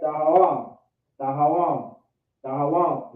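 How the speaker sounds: DAHAWAM run together as one quick word. Shown as a demonstration. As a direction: say "Dahawam" briskly, no gap between syllables. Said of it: "You say it fast".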